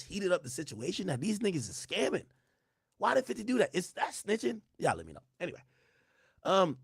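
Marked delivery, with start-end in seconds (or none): 3.0-4.6 high-pitched disbelief; incredulous. Real, not acted. Outraged question to chat.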